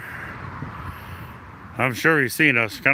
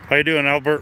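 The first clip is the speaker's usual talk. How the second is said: muffled through mask. Real, not acted. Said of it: "Sorry if my voice gets muffled".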